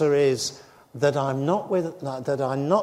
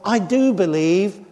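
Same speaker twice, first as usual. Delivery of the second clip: crying out; 3 semitones higher, 3 dB louder than usual. Retold or imitated. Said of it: "The man cries out".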